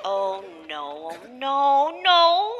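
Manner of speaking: creeping panic, climbing in pitch; mounting dread. Acted. Mother alarmed by computer pop-up.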